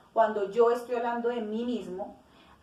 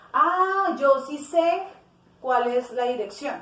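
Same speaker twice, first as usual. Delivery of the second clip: sudden remembering; 2 semitones higher, 4 dB louder than usual. Shown as a demonstration. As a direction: blurt it out as the answer comes back to you. Ejemplo actuado, alguien recuerda algo. (recordando de golpe, más agudo y fuerte)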